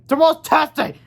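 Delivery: high, loud panicked blurt; panicking. A narrator's reading. George on the phone to Harold, high panicked blurt. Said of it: "said George, panicking".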